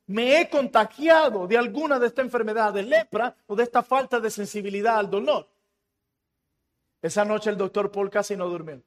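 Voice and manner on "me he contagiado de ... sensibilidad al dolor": mild retold alarm, lively pitch swings; alarmed quote. Doctor fearing he caught leprosy, mildly alarmed. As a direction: act out a startled realization, lightly. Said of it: "se asombra y se asusta y dijo".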